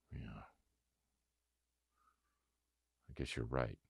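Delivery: barely audible, defeated yeah; sheepish mumble. Retold or imitated. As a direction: mumble it like you've been caught out. Sheepishly conceding to therapist group.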